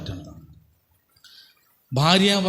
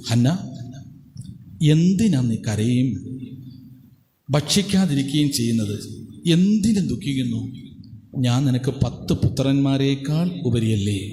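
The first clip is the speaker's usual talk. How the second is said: tender husband. Retold or imitated. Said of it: "ഭർത്താവായ ഏൽക്കാന അവളോട് ചോദിച്ചു".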